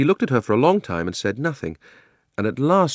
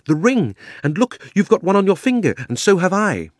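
higher and louder, eager; excited cry; 10 semitones higher, 4 dB louder than usual. A narrator's reading. Diggory tells the girl they both wear rings, excitedly. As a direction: point it all out in a rush of discovery. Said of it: "cried Diggory".

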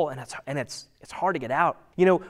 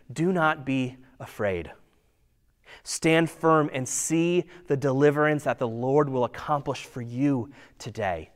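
calm reassurance; 2 semitones lower than usual. Retold or imitated. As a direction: gently tell them not to be afraid. Moses calming the frightened Israelites.

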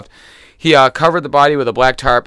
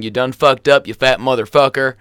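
a light Southern accent, yelled in a mock tone; mild Southern accent on a retold yell; 3 dB louder than usual. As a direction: growl it out like a Southern redneck. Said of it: "I like the accent".

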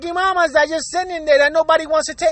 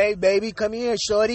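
mock pickup line; 3 semitones lower, 5 dB quieter than usual. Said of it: "I ain't trying to work that sweet".

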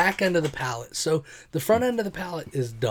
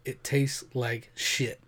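disgusted; much slower than usual. Real, not acted. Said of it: "it's a pale ale".

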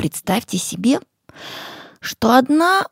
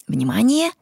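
whisper; 2 semitones higher than usual. Real, not acted. Whispered cue before the phrase.

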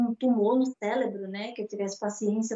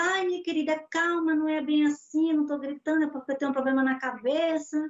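mock placating employer, slightly raised pitch; placating boss; 4 semitones higher than usual. Boss soothing the maid who is quitting, imitated placating tone. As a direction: plead for calm, lightly imitating the boss.

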